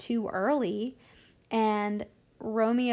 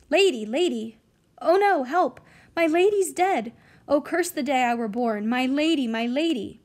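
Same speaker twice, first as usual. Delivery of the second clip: panicked wail; 3 semitones higher, 5 dB louder than usual. Acted. Nurse finds Juliet seemingly dead.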